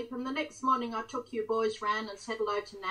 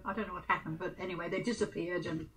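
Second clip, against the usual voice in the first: mouth full; 3 semitones lower, 4 dB quieter, faster than usual. Real, not acted. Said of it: "I'm looking at myself chewing this bun".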